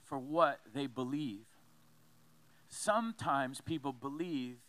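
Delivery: low, measured reading with pauses; weighty quotation, pitched a little low; solemn quote reading. Acted. Reads a martyr's quote aloud.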